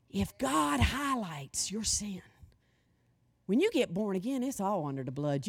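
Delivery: quiet, hushed confession to God; soft prayer. Real, not acted. Preacher modelling a quiet prayer for forgiveness. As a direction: pray it softly.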